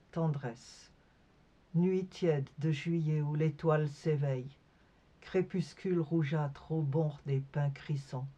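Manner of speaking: measured poem recitation, pausing after each image; poetry reading. Acted. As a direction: read each line as a separate picture. Reads her poem aloud. (lecture de poème, posée)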